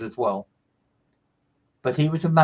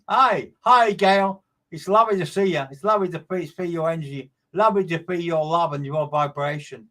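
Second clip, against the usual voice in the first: a lightly raised, brighter greeting from the other side; spirit's voice coming through. Acted. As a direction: medium channelling a spirit, greeting Gail gently. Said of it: "you keep trying to change my voice".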